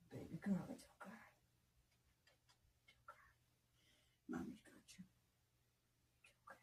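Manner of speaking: whispered comfort. Real, not acted. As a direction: softly hush a hurting pet. Soothing her sick cat.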